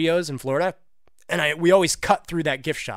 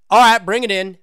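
louder cheery clerk voice; store clerk; 5 semitones higher, 8 dB louder than usual. Pretend. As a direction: wave him in like a clerk. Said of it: "that was a little role-playing there".

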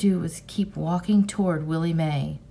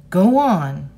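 loud angry shout; furious shout; 7 dB louder than usual. Acted. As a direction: suddenly lose your temper. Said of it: "Rob shouted, suddenly furious".

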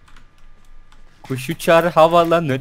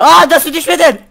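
high, louder astonished question; surprised; 10 semitones higher, 5 dB louder than usual. Real, not acted. Gamer amazed his rival didn't fall, surprised. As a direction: gasp it out in disbelief.

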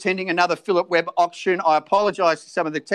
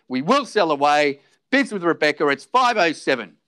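auctioneer calling. Acted.

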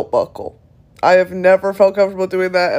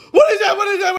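startled whisper-shout; 11 semitones higher, much faster than usual. Retold or imitated. Retold fright.

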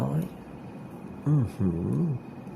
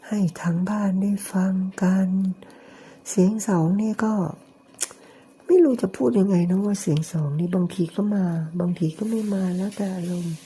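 slightly raised, sweetly affected tone; put-on cutesy voice; 4 semitones higher than usual. Showing home viewers his affected 'second voice', mildly raised. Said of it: "ทำเสียงสองเนี่ย".

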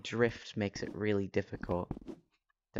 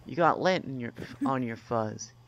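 robot voice. Acted. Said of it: "That's intentional".

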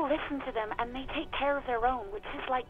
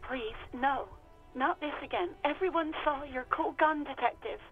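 mildly fed-up sigh of a voice; a touch of weary exasperation; exasperated. Acted. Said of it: "She sounds beyond exasperated".

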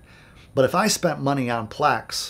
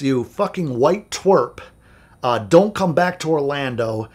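mock yelling; 3 dB louder, slower than usual. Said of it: "He is yelling".

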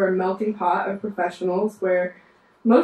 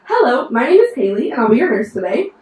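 polished, louder bedside greeting; louder, proper nurse introducing herself to a patient; professional nurse voice; 2 semitones higher, 6 dB louder than usual. Shown as a demonstration. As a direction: put on your best hospital introduction. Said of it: "conscious effort to sound like a nurse".

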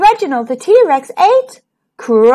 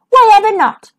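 high, louder indignant question; surprised question; 8 semitones higher, 4 dB louder, faster than usual. A narrator's reading. Reginald answering his best friend Hugh, high and surprised. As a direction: sound truly baffled. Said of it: "asked Reginald".

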